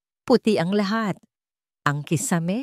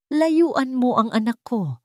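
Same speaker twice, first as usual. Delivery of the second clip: slow, raised warning, each word laid down; stern warning; 6 semitones higher, slower than usual. A narrator's reading. Mother-in-law orders Celine off her son, stern and slow. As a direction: order her away from your son, slowly. Mother warns son's wife away.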